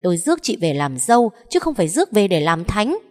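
loud, high furious mother-in-law yelling; shrill-pitched rant from an outraged matriarch; shrieking scold. A narrator's reading. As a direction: screech at the lazy daughter-in-law. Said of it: "mà tru chéo".

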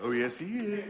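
hushed panto heckle, oh yes he is; panto crowd callback. Pretend. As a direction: answer back like a panto crowd. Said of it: "pantomime-style dialogue exchanges".

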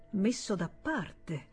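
slow, quiet, scornful echo; forced self-control. Acted. The senator repeating his brother's words with restrained scorn. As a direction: repeat his words back slowly, holding your anger in. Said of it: "si dominò".

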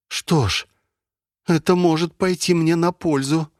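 hopeful call into the silence. Acted. Valeria calls the AI.

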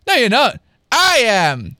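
mild high-pitched yell. A narrator's reading. Twin insisting on her identity, mildly yelling. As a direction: argue back in a half yell. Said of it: "yelled Trent".

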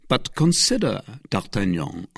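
grave, measured warning; solemn. Acted. Athos warning D'Artagnan, solemn. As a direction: weigh the words with solemnity. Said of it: "in a tone so solemn".

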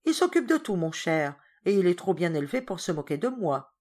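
stern governess. Acted. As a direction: put the boy in his place. Governess firm reply.

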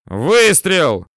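loud, high one-word callout; shouted firing call. A narrator's reading. Gunner announcing the shot from turret, loud high shout. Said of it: "из башни танка донеслось".

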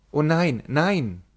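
hasty protest. Acted. Maina hastily reassuring her lover, excited. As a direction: rush to contradict him. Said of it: "antwortete sie hastig".

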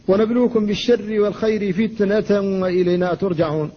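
measured recital keeping the ta in فتنة firm; recite, holding the ta of فتنة tight; Quran recitation. Shown as a demonstration. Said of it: "لا بد أيضًا من الحفاظ على شدة التاء". (تلاوة مع الحفاظ على شدة التاء)

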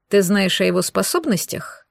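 cold, hard fatherly question; icy voice. Acted. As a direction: chill every word. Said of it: "спросил меня ледяным голосом Кастер".

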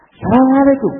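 high, bright Assalamualaikum with a handshake; hearty greeting. Shown as a demonstration. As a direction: greet warmly while shaking hands. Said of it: "Jabat tangan".

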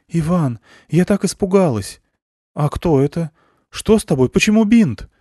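worried wife greeting him; lightly voiced scared wife. Wife to returning husband, alarmed.

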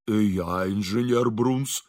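slow, low put-on bass; sudden bass. A narrator's reading. Engineer introducing himself to a stranger, unexpected bass. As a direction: drop into a drawn-out low voice. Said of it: "неожиданным басом".

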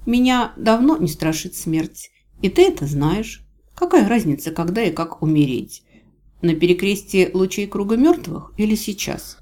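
a hint of a fearless captive; defiant heroine. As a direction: answer a threat with mild defiance.

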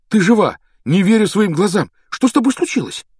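high, loud amazement; overjoyed. Acted. Brother finding his sister alive, loudly overjoyed. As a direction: burst out in joyful disbelief.

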